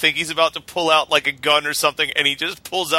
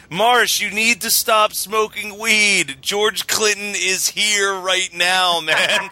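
slow, lightly voiced stoned dude; lazy stoner urging his friend; slow stoner voice telling Marsh to stop smoking weed; 4 semitones higher, slower than usual. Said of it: "our high guy impression".

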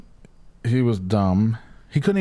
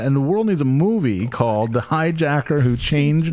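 high, rousing call to action; mock-passionate pitch; 7 semitones higher than usual. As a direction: pitch it excitedly, voice way up.

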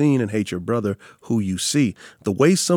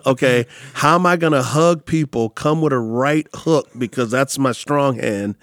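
louder, higher anxious inner voice, planning a punch; mock panic; 3 semitones higher, 4 dB louder than usual. Pastor telling the host his panicked thoughts, louder and higher. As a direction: play up the panic of bracing for a hug or a fight. Retells bracing for a hit.

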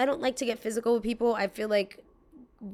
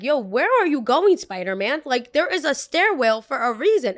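louder, higher teasing call; 4 semitones higher, 5 dB louder than usual. Retold or imitated. Yelling at the guy who jumped the stairs, loud and mocking. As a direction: shout after him, mocking his jump.

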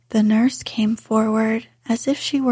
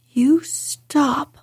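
almost shouting; 4 semitones higher than usual. Acted. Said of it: "she almost shouted".

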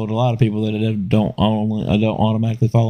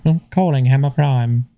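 lightly imitated phone assistant; mock assistant confirmation, pitched up; a hint of virtual assistant, higher voice; Siri; 4 semitones higher than usual. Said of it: "like Siri didn't do it".

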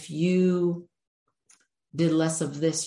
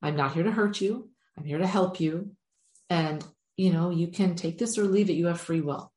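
gentle reassurance; going real soft. Shown as a demonstration. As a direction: ease them in kindly, on their side. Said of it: "Going real soft".

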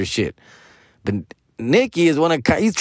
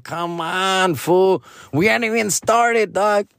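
higher mock complaint; exasperated protest; 5 semitones higher, slower than usual. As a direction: whine it like you're fed up. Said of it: "I'm like".

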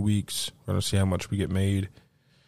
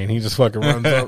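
ordinary delivery

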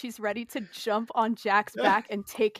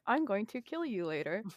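softer threat through clenched teeth; softer, tight-jawed mock threat; 7 dB quieter than usual. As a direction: hiss it through gritted teeth, still smiling. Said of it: "saying through her clenched teeth".

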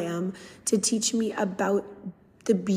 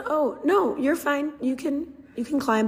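forced cheer; 5 semitones higher than usual. Retold or imitated. Hiding disappointment from the dad.

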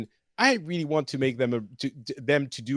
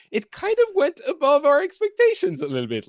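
mock developer voice, much higher; quoting the devs; 13 semitones higher, 4 dB louder than usual. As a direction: lightly play a smug dev, pitched up. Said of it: "they were like".

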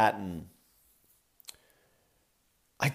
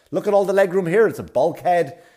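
mock delight; 7 semitones higher, 6 dB louder than usual. Mocking her pleased tone.

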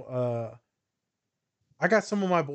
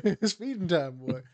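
laughing tease; 2 semitones higher, 3 dB quieter than usual. Real, not acted. Joking about hunger.

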